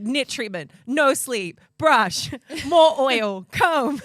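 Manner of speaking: loud, high frantic listing. Real, not acted. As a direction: rattle it off in exasperation. Frantic list of nit routine.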